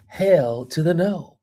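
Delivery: sassy refusal. Retold or imitated. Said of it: "As they say".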